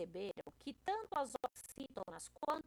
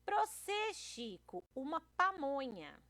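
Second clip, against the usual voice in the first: Rosinha; 3 semitones higher than usual. Acted. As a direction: play an eager-to-please comic character. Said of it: "Aí a Rosinha, querendo agradar".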